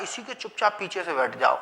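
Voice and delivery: whisper-like softness, as if slipping in unnoticed; hushed sneaking. Pretend. Timid consonants urging each other to sit behind, softly hushed. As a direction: drop to a soft hush for इसी के चुपचाप पीछे से बैठ जाओ.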